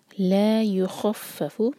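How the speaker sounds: slow recitation, ला stretched; Quran recitation. Shown as a demonstration. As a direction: recite युखफ़फ़ु with heavy खा, doubled फ़. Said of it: "खा heavy".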